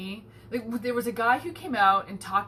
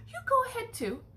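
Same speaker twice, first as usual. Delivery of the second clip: imitating the lady; 14 semitones higher than usual. Voicing kind lady.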